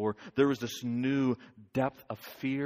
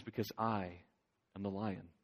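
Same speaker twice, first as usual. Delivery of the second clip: quiet revelation; 3 semitones lower, 6 dB quieter than usual. Acted. The lion reveals himself.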